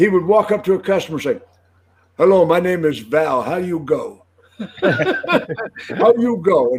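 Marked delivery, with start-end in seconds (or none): 2.2-6.7 put-on very slow, drawn-out Russian accent. Act out the Russian car salesman walking up to a customer, as a Vladimir Nikishin, Russian accent impression. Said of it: "Russian impression".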